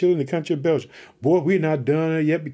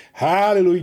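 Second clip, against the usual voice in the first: louder joyful hallelujah; shouted hallelujah; 2 semitones higher, 4 dB louder than usual. Real, not acted. Pastor praising God before his listeners, loud joyful shout. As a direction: cry it out in praise. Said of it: "did you hear me say that".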